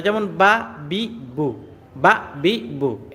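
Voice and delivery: বা বি বু said short and quick; quick harakat syllables. Shown as a demonstration. Teacher drilling students: বা বি বু short and quick. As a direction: clip each syllable বা, বি, বু quickly. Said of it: "হরকতের উচ্চারণ তাড়াতাড়ি পড়তে হয়".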